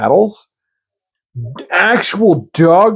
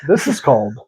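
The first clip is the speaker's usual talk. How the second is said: Count Dankula; 2 semitones higher than usual. Acted. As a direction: try a loose Scottish comedian impression. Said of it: "Can't do Scottish".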